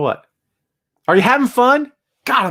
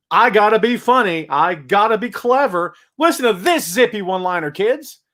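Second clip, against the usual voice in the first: mock show-off fan; 2 semitones higher than usual. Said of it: "crowd just wants to get on camera".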